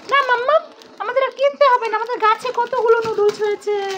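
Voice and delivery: put-on lightly high, hushed kid voice; a kid plotting a secret; conspiring child.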